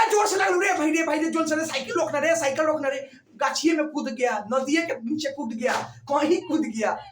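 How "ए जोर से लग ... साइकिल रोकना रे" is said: raised, higher-pitched urgent call; mock calling out. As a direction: call out as if stopping a runaway bicycle. Actúa gritos para parar una bicicleta.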